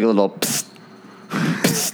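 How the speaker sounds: quick hushed psst; spray can hiss. Shown as a demonstration. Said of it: "You have to do, like".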